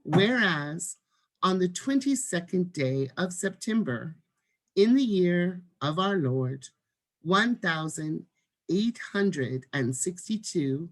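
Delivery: slow, measured proclamation; deliberate, professional script reading; formal demonstration reading. Shown as a demonstration. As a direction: stress key words and pause between phrases. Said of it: "here we do it again".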